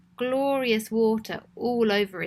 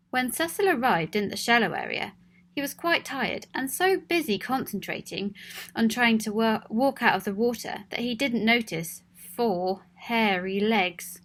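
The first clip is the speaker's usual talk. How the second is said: gentle storybook reading; story narration. A narrator's reading. Storyteller introducing Cecil to listening children, gently read.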